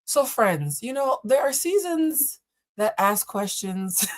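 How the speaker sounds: slow, measured mock kindness; put-on kind voice. Reader practicing kindness on friends, put-on kind voice. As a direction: address them gently, drawing it out slowly. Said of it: "I'm gonna use my kind voice".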